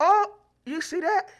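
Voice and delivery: high, loud, laughing brag. Real, not acted. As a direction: crow it through laughter. Boasting, laughing at friend.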